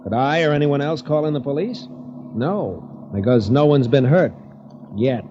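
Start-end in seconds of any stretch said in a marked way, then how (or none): 3.1-5.2 ominous, with a weighted pause before the last word; hint that trouble is coming. Acted. Cousin confiding in the writer he called up, ominous. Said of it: "you say that as though you expect trouble".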